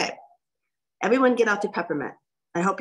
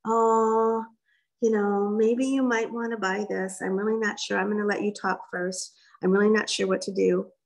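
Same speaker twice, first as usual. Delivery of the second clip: timid, unsure pitch. Retold or imitated. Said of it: "with the attitude that".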